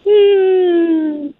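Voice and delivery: high, American valley girl voice in a lightly put-on accent; a light, perky American valley girl accent. Shown as a demonstration. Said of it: "can you speak in an American accent?".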